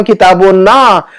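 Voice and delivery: "किताबो ना" with a long, held "ना"; drawn-out ending. Shown as a demonstration. Teacher showing "ना" joined to the book, held long. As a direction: stretch out the final "ना" in "किताबो ना".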